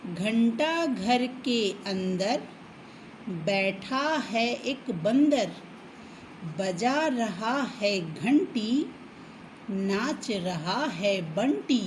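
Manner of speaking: put-on slow sing-song rhyme for kids; slow chanting of a children's poem; children's rhyme reading. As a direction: read it out slowly like a nursery poem. Rereads the rhyme.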